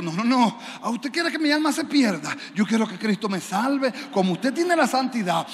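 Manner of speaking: loud, pushy mock plea; mock insistent pleading. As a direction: press her with a mock urgent plea. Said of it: "no se lo estoy diciendo en ese tono". (súplica insistente y fingida, más fuerte)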